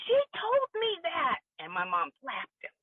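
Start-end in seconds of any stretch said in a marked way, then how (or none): 0.1-1.4 accusing. Retold or imitated. Stepbrother accusing in front of mom.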